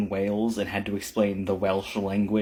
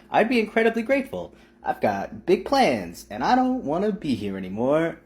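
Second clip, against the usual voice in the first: mock-desperate plea; 6 semitones higher, 3 dB louder than usual. Real, not acted. Joking plea, voice pushed up.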